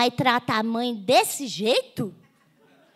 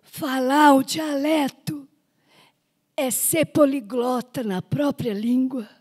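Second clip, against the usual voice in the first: lightly voiced wise old man; 3 semitones lower than usual. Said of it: "Ele falou".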